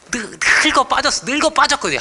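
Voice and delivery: high, loud mock dismay; playful exclamation. Real, not acted. Mock exclaim about old father.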